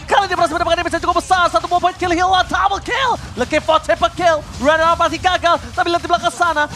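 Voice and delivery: fighting game announcer. Real, not acted. Esports caster hyping a team fight.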